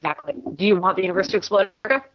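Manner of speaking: muffled, garbled call audio; underwater. Real, not acted. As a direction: voice like it's underwater. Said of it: "you sound like you're underwater".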